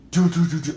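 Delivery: loud "do-do-do" footsteps; punchy vocal stomp effect; imitated stomping. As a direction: mimic feet stomping upstairs. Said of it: "somebody stomping up the stairs".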